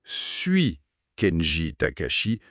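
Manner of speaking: slow suis Kenji Takashi, rising on suis; slow, questioning suis Kenji Takashi; slow wrong form. Shown as a demonstration. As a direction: show the mistake slowly. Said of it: "ça c'est incorrect".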